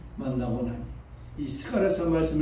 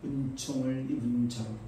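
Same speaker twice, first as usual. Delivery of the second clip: voice of God; 2 semitones lower than usual. Acted. God speaking to the mourners, slow and solemn. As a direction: speak as God, calm and weighty. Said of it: "하나님은 뭐랍니까".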